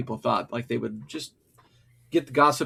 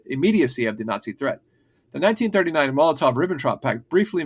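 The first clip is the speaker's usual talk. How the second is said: reading aloud; faster than usual. Acted. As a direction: rattle through the script briskly. Reads a prepared history script.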